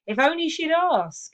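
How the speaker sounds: exasperated guy. Shown as a demonstration. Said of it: "And the guy says".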